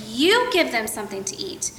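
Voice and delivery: "You" pressed hard, rest of the line plain; stress on you. Retold or imitated. Jesus telling disciples to feed crowd, stress on you. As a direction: lean on "You" as Jesus speaking. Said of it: "with a great emphasis on the word you".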